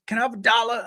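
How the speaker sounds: lightly voiced street hustler; a hint of the little guy's voice; four-foot hood guy. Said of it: "I'm about to do his voice".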